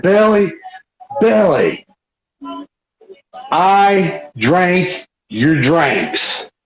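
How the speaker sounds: slow, spaced-out words with long pauses; deliberate confession. Retold or imitated. Drunk prankster confesses to Billy, slowly and deliberately. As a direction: own up one word at a time.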